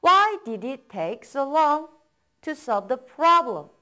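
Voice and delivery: slow, split into two phrases; slow chunked reading. Shown as a demonstration. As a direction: break it in two, slowly. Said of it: "그 이유를 물어보는 거예요".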